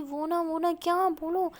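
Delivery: anxious demand. Acted. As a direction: push her to spit it out.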